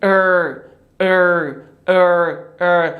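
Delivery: ار rounded lips, tongue back, no flap; English R sound. Shown as a demonstration. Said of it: "پس ما باید چی بگیم؟". (ار را با لب گرد بگو)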